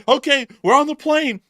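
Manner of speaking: high, loud frantic escape cry; panicked Putin. Pretend. Putin fleeing, crying out in high panic. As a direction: bolt for the plane in a panic. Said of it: "He probably would say".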